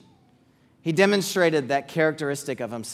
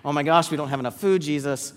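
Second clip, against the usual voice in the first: rising, frantic worry, getting louder at the end; panicked disciples; 4 dB louder, much faster than usual. Retold or imitated. Disciples panicking to Jesus about food, building frantic. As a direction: act out the disciples fretting over food. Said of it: "the disciples running up to Jesus going".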